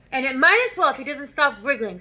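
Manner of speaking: snorting. Acted. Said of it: "snorted the Trunchbull".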